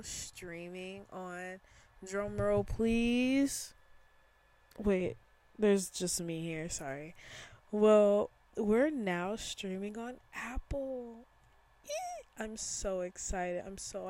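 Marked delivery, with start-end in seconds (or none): 2.1-3.7 mock drum roll. Building suspense for announcement. 11.9-12.4 squeal of joy. Real, not acted. Cheering about streaming on Apple.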